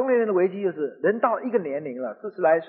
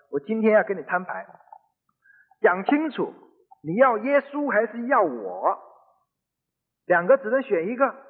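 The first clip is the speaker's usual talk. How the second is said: mildly angry retold demand, slightly raised pitch; retold husband's stern ultimatum; 3 semitones higher than usual. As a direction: press for an answer, with a touch of anger. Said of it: "他很生气".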